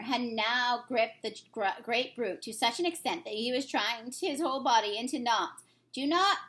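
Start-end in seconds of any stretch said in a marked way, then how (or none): 5.9-6.4 high pleading cry; lightly voiced frightened giant screeching. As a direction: screech at Jack. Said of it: "he screeched".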